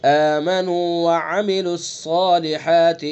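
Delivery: "وعملوا" with a clear throat ain; slow careful model. Shown as a demonstration. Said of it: "عین کو".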